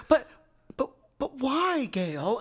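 high, slow nasally plea; Nicolas Cage. Acted. Co-host imitates the actor's character questioning Gale, nasally and high. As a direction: whine it through the nose, stretched out. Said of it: "he gives it this nasally".

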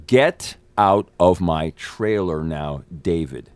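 very slow, controlled command, word by word; slow, deliberate order. Retold or imitated. Actor ordering David out of his trailer, slow and deliberate. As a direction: spell it out slowly, as if to someone who didn't listen.

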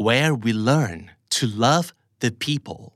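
"love" stressed, slow; stress drill. Shown as a demonstration. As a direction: lean on "love" and read it slowly. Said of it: "ต้องฝึกบ่อยๆ". (เน้นคำว่า "love" อ่านช้าๆ)

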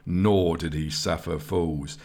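plain reading voice

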